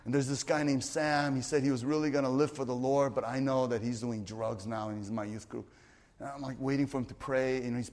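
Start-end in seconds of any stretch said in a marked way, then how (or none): 0.0-5.7 slower sharing. Retold or imitated. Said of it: "I went slower".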